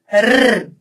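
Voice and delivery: a sustained vibrating R; rolled R sound. Shown as a demonstration. Teacher shows Brazilians a missing sound, trilled R. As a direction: trill a long R on the tongue. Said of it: "não tem esse som".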